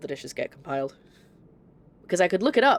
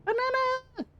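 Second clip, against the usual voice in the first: put-on high squeaky American-accented Banana; a quick, much higher burst of fake American; jokey American accent, pitched way up; slower than usual. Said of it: "when I do my American accents".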